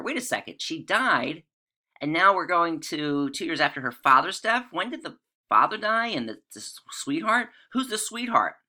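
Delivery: mock confusion. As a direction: pretend to be baffled by the timeline. Teacher feigns confusion over timeline.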